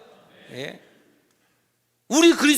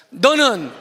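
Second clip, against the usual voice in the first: declaring to neighbor. Acted. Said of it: "옆 사람 보면서 시작".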